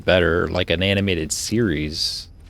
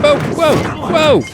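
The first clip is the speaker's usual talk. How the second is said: high-pitched shocked cry; startled whoa; 9 dB louder, much slower than usual. Real, not acted. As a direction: caught off guard, loud and high. Sudden shock during gameplay.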